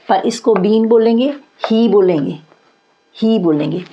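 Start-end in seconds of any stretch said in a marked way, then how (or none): 0.5-0.9 बीन with a long ee vowel. Shown as a demonstration. Teacher modelling for students, बीन with long ee. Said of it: "ये बड़ी ई की तरह है". 1.7-1.9 ही with a long ee vowel. Shown as a demonstration. Teacher modelling for students, ही with long ee. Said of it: "ये बड़ी ई की तरह है". 3.2-3.4 ही with a long ee vowel. Shown as a demonstration. Teacher repeating for students, ही with long ee. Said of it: "ये बड़ी ई की तरह है".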